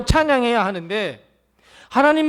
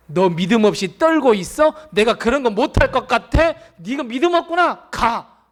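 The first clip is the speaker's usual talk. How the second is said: mock scolding Jesus; 2 semitones higher than usual. The wrongly imagined Jesus scolding Jairus, mock harsh shout. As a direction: pretend he snapped at Jairus. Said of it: "예수님 이렇게 말씀하셨습니까".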